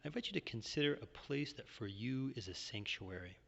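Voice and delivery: calm, measured Yoga Nidra guidance; guided meditation. Real, not acted. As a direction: guide listeners gently into rest, pausing between phrases.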